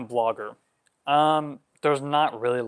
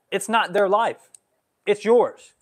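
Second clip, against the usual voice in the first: rising heat, louder on yours; worked up; 5 semitones higher, 5 dB louder, slower than usual. Real, not acted. Pushing back on the parents' fears, worked up. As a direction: get fired up, real. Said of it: "I'm getting worked up right now".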